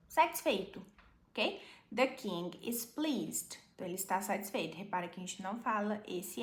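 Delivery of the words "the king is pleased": slow model reading. Shown as a demonstration. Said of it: "slow model reading".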